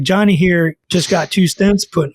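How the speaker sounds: slow, light imitation of the doctor's accent; Ken Berry accent, lightly mocked. Doctor talking about Johnny's stents, in a lightly mocked accent. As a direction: start mimicking the keto doctor's accent, unhurried. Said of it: "not trying to make fun of his accent".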